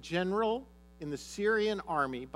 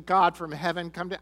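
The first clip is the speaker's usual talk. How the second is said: mock prophet yell; 7 dB louder than usual. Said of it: "yelled over me or screamed over me".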